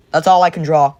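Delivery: usual speaking voice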